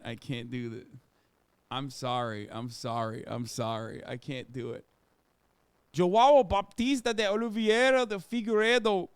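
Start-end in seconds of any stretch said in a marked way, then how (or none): 5.9-9.1 Portuguese pronunciation. Shown as a demonstration.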